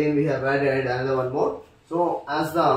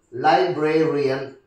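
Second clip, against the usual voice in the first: broken into syllables; slower than usual. Shown as a demonstration. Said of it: "the third syllable".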